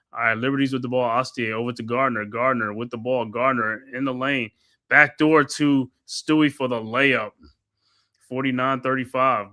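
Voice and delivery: steady courtside commentator calling each pass; play-by-play call. Acted. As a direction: narrate the possession like a broadcaster. Calls the game play-by-play.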